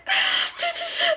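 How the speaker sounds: high, soft fake sobs; mock sobbing. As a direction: whimper in pretend heartbreak. Mock crying over broken eyeshadow.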